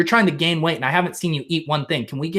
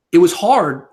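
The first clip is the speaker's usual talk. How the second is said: louder, choked-up hammed confession; mock emotional; 2 semitones higher, 6 dB louder than usual. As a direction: play it like you're about to break. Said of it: "Maybe I am gonna get emotional".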